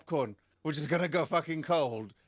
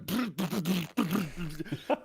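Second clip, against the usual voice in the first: mouthed thumping beat; imitated blasting music. Ruffian blasting music at the back, mimicked beat. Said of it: "starts blasting music".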